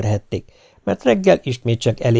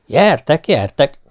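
higher, louder call to the giants; 4 semitones higher, 4 dB louder, slower than usual. Acted. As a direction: dare them to come at him. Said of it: "hívta Rózsa királyfi". (hangos, magas hívás az óriásoknak)

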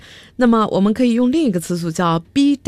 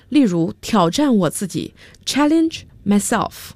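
example line whispered; hushed unvoiced whisper.

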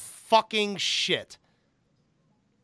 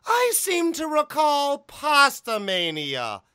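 slow, higher, smug manager jab; Paul Heyman impression; 5 semitones higher, much slower than usual. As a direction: savour the insult slowly. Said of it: "my name is Paul Heyman".

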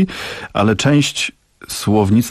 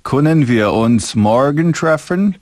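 German demo; 4 semitones higher, slower than usual. Shown as a demonstration. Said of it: "Albo na przykład po niemiecku".

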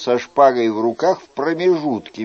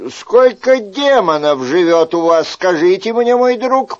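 higher, louder angry demand; growled; 5 semitones higher, 3 dB louder than usual. Acted. Chicot growling at the host over the wrecked room. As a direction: growl it at the innkeeper. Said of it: "прорычал Шико".

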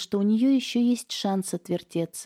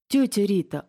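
a shocked gasp, louder; gasping in dismay; 4 semitones higher, 5 dB louder than usual. A narrator's reading. Niece hurt that her aunt shuts her out, gasping. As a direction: catch your breath in dismay. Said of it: "ахнула девушка".

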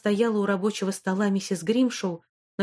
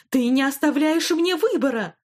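angry shout; 6 semitones higher, 4 dB louder than usual. Acted. Headmistress shouting at pupil.

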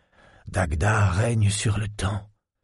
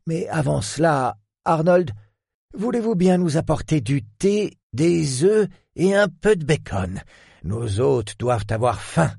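calling out; 6 semitones higher than usual. A narrator's reading. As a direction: call across the room to a servant. Lord calling the butler.

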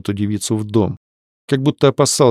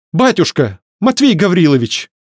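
cutting in; 8 semitones higher, 3 dB louder than usual. A narrator's reading. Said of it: "вмешалась Варя".

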